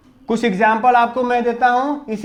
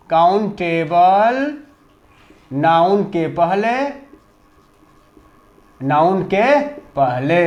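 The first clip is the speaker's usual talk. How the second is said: slow, dictating pace; 3 semitones lower, slower than usual. Shown as a demonstration. Teacher dictates the rule slowly to pupils. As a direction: say it slowly so they can write it down. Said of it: "dictating the rule".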